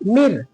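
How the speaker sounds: "मिर" ending on a light r; thin ra. Shown as a demonstration. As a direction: demonstrate the fine r in "मिर". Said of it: "एकदम बारीक".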